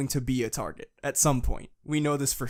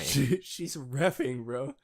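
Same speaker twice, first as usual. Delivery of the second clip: echoed hype; slower than usual. Shown as a demonstration. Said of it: "She's repping the good boy".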